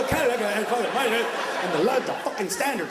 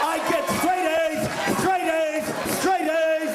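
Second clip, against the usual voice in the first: put-on high, shouted, proud kid bragging; boasting kid; 5 semitones higher, slower than usual. A kid bragging about his straight A's, shouting with pride. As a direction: brag like a kid who thinks he's a genius.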